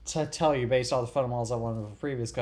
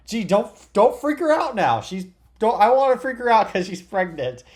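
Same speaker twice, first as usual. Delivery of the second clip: higher, louder retold yelling; imitated yell; 9 semitones higher, 7 dB louder than usual. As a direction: act out a husband yelling in the background of a call. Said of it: "he yelled in the background".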